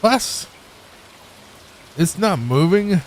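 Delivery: mock German chef in disbelief; German accent. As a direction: put on a German accent, incredulous. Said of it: "It's W A S if it's German".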